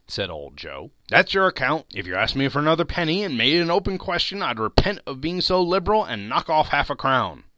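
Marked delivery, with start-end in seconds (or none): 1.1-7.4 put-on a touch of a sly old dealer, quick; lightly voiced haggling pawnbroker; old Joe. A narrator's reading. Old Joe haggling with Mrs Dilber, quick and sly.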